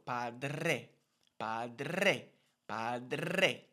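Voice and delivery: padre with the r extended into a trill; rolled r. Shown as a demonstration. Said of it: "we kind of extend it a little".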